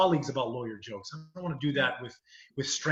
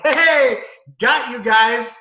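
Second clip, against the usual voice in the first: loud, higher gotcha shout; switching to plain American, triumphant; American voice reveal; 8 semitones higher, 10 dB louder, much slower than usual. Retold or imitated. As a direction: drop the act with a big reveal. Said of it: "he does a really good American accent".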